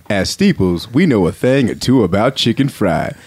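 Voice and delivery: lightly voiced ad announcer; low-key commercial read. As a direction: pitch the food in an easygoing voice. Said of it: "announcer voice is this".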